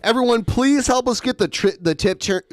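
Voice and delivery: tripping over words from braces; tongue tangled by braces. Real, not acted. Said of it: "it's my braces".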